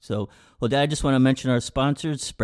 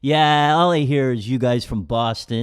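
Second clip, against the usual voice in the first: mock heckle; 5 dB louder than usual. Heckler insists in retold commercial.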